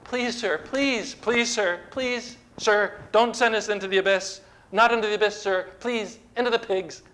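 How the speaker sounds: high, pleading, frantic begging; begging demons. Acted. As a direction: grovel and plead like terrified demons. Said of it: "They begged him".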